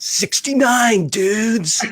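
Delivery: very high, sing-song dude voice with swinging pitch. Quoting a comedy movie scene: Keanu Reeves impression. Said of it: "my Keanu Reeves impression".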